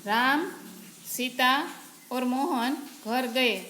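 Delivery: a clear pause after "Ram" and another after "Sita"; pause at commas. Shown as a demonstration. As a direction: halt briefly after "Ram" and "Sita", then finish "और मोहन घर गए" slowly. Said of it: "उसमें थोड़ा सा रुके".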